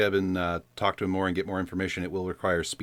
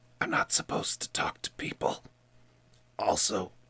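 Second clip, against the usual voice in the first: put-on hushed whisper. Voicing a character who leans in close to a stranger: whispering in character. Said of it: "leans in and whispers".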